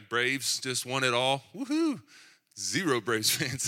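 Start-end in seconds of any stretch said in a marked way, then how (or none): 1.5-2.0 high, loud woohoo; celebratory cheer. Pretend. Preacher cheers the Braves' win to the congregation, celebratory whoop. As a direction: whoop it up for the home team.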